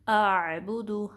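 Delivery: आबुदु recited slowly with a clear hamza from the throat; tajweed demo. Shown as a demonstration. Teacher modelling आबुदु for students, slow and precise. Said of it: "हमज़ा और आइन की आवाज़ में हमने फ़र्क".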